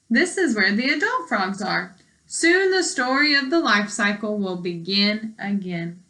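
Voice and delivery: clear, even read-aloud voice for a class; reading to children. Acted. Teacher reading a frog book to her class, clear read-aloud.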